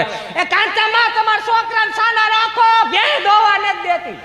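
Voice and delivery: very high, slow, drawn-out call; complaining neighbour. Acted. Neighbour complaining about crying children, high drawn-out holler. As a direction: holler from several gates away. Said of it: "સોથી ડેલીએથી અંબામાં કહેવા આવે".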